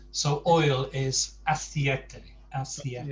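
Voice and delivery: aceite with every letter sounded, a-ce-i-te. Shown as a demonstration. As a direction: spell out aceite fully, ending in a clear e. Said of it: "sound every letter in Spanish".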